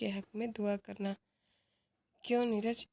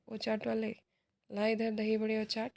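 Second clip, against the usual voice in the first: calling out. Acted. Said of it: "आवाज़ देता है".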